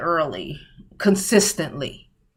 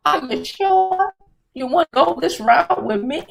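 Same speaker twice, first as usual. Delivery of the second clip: mock challenge; 6 semitones higher than usual. Retelling how she dared the Sagittarius girl. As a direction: taunt her, voice up high.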